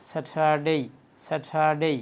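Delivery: স্যাটারডে with breathy "tha" and long "dey"; correct Saturday. Shown as a demonstration. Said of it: "স্যাটারডে না বলে আমরা কি বলবো". (স্যাটারডে শুদ্ধ উচ্চারণে, "স্যাঠাডেই")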